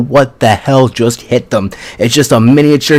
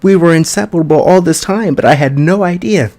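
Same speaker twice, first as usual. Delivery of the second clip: upset denial; 6 semitones higher than usual. Retold or imitated. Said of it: "She's like".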